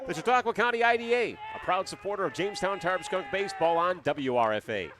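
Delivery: polished radio sponsor read; announcer reading a scripted promo. Real, not acted. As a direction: read the sponsor copy briskly and evenly. Reads sponsor message.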